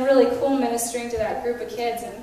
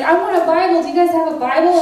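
retold eager request; 5 semitones higher, 6 dB louder, faster than usual. Retold eager convert asking.

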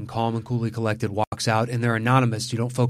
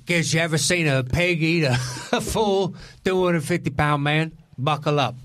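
laughing through a hammed-up British gangster accent; mock Brick Top accent; 4 semitones higher than usual. Podcaster quoting the pig-feeding villain, in a breaking mock British gangster accent. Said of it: "I'm not exactly sure what accent that was".

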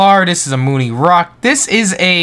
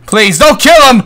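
higher, louder plea; loud pleading; 7 semitones higher, 6 dB louder than usual. Real, not acted. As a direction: beg them to stop. Pleading as Viking is hit.

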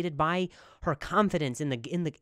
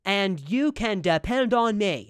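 slow, louder, solemn proud-husband voice; earnest dutiful man; 4 dB louder, slower than usual. Retold or imitated. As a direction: announce your duty like a dependable man. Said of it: "And they, and they talk like that".

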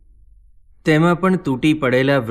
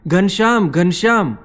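higher, louder cry of the name; shouted call; 6 semitones higher, 5 dB louder than usual. A narrator's reading. Rampratap shouting for missing Ghanshyam, loud anxious call. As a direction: call out urgently, twice over. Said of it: "રામપ્રતાપે ફરી બૂમ મારી".

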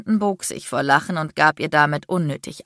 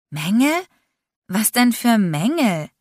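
indignant cry, pitched up; upset outcry; 6 semitones higher, 3 dB louder than usual. A narrator's reading. Aubrey to Landon about the defects, upset cry. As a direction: throw the question back, outraged. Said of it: "rief Aubrey aufgebracht".

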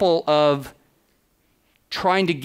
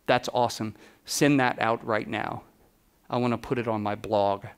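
lightly imitated low, soft voice; imitating a singer; 4 semitones lower, 5 dB quieter than usual. Singer approves the portrait for his blog, lightly imitated low, soft voice. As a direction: slightly lower and softer, an understated impersonation. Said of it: "'Cause that's how he talks".

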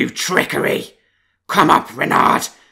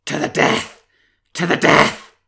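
loud, higher roar down the well; roaring wolf; 4 semitones higher, 9 dB louder than usual. Acted. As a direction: bellow it into the well. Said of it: "he roared at the rim".

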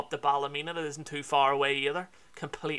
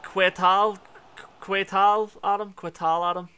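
Spanish greeting; 5 semitones higher, 8 dB louder, slower than usual. Retold or imitated. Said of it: "I think I'd be better at the Spanish".

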